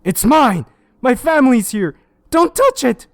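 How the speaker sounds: high, loud possessive yelling; guard it with everything you have; frantic shout. Acted. Detective shouting at the children to keep away.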